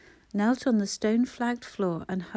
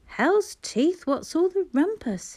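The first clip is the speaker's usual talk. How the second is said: growled; 8 semitones higher, 3 dB louder, slower than usual. A narrator's reading. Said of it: "he growled".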